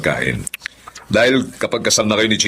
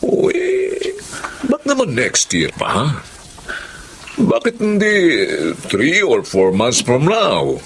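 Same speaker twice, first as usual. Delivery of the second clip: insistent suggestion; 5 semitones higher, much slower than usual. Acted. Father pushes for earlier wedding.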